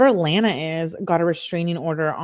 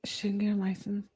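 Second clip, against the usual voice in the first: soft, voiceless whisper; hushed aside, barely audible; 9 dB quieter than usual. Real, not acted. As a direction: whisper it under your breath. Quiet aside during the stream.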